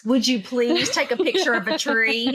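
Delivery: polite customer-service request, lilting up at the end; Harvard voice. Pretend. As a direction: ask it sweetly, like customer service. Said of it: "you have to put the Harvard voice on".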